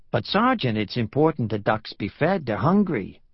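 pleading New Yorker, lightly voiced; protesting tourist with New York vowels; New York accent. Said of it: "His New York accent grated".

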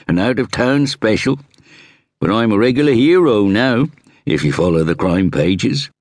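lightly voiced inspector introducing himself; inspector's voice. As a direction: play the self-assured Scotland Yard inspector. Inspector boasting of his fame.

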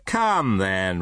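gay. Acted. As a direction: coax him merrily. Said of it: "returned the nephew gaily".

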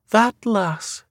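high, slow prophetic seer voice; a Scottish seer foretelling doom; eerie old seer. A narrator's reading. Seer speaks.

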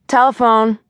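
lightly voiced husband announcing a phone call; interrupting husband call-out. A narrator's reading. Husband interrupts her daydream.

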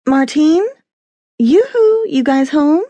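high calling out through the house. Acted. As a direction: call out to someone in another room. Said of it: "she called".

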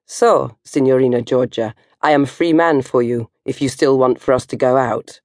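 put-on light Italian accent; lightly voiced Italian charmer. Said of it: "he said it in his gorgy, porgy, pizza-a-go-go land accent".

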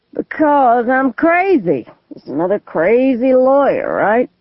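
put-on slow, unhinged drunk voice; unhinged drunk man. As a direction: brood on being driven crazy. Gunman explains himself.

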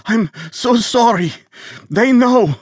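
put-on high, desperate Eastern European accent. Wounded visitor apologizing to Bernard, Eastern European accent. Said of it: "Jolene detected an Eastern European accent".

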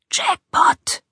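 hushed whisper, barely hiding delight; gleeful whisper. A narrator's reading. Burglar whispering over a cracked drawer, gleeful whisper. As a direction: whisper it with suppressed glee. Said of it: "flüsterte er mit kaum verhohlener Freude".

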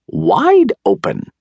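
very high, drawn-out wifely yell; shrieked storybook command, stretched out; yelled order. A narrator's reading. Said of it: "yelled his wife".

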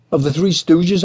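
rising high in disbelief; incredulous. Acted. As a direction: slide up an octave in disbelief. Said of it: "I asked, incredulous, my voice glissandoing".

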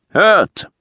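loud high call for attention. Acted. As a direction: call out over the crowd. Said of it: "hob seine Stimme".

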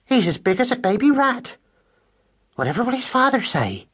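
high squeaky West Country mouse voice, fretting; worried country mouse. Acted. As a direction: fuss like an anxious farm-girl mother. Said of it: "said Madeline again".

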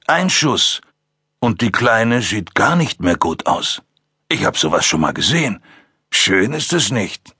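ruhig drohend, leicht gespielter Psychopath; genieß die Drohung, ganz gelassen; drohender Killer. Acted. Ackerman droht mit der Geisel. (Ackerman warnt die Cops gelassen vor der Geisel)

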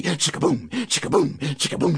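ordinary delivery

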